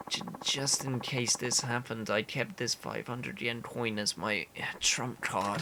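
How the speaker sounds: drained, stammering, running out of strength; starving weak man. Acted. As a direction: play someone too weak from hunger to move.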